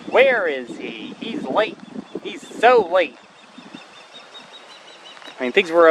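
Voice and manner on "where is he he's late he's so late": voicing the osprey. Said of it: "Osprey's thinking".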